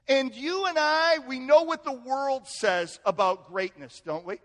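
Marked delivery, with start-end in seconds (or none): none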